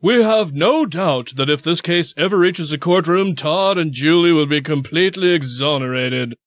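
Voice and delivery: lightly put-on Southern lawyer; mock Southern accent. Host quoting the couple's lawyers, mock Southern accent. Reads lawyers' statement in character.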